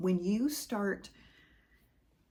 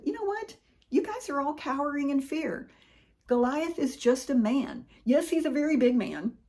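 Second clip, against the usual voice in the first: rousing challenge; 6 semitones higher, 3 dB louder than usual. Acted. David rallying the cowering army.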